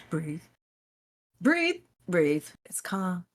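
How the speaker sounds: soft, hushed self-talk; quietly talking yourself down; self-soothing. Retold or imitated. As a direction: softly coach yourself to breathe, re-enacted. Acting out calming oneself.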